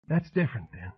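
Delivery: high, dazed Southern woman rambling on; wounded madwoman. A narrator's reading. Madwoman telling a singer about her grief, high and wounded. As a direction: let her drift, high and hurt. Rona voice again.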